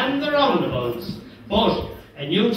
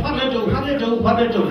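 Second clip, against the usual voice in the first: higher-pitched, agitated retold question; excited, panicky; 4 semitones higher, faster than usual. Tommy asking the storyteller before the free, excited and flustered. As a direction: imitate a teammate in a flap. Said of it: "He wasn't a bit excited".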